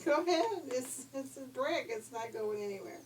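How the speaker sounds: mock the wolf from safety; taunting pig. A narrator's reading.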